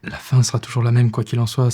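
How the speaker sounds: firm and loud, insisting; forceful insistence. Acted. Repeats the bleak conclusion forcefully.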